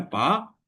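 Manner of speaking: पा set apart as one syllable; separate syllable. Shown as a demonstration. Teacher counting syllables of Pakistan, पा said separately. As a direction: sound out पा on its own. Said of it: "तो तीन syllable हो गए".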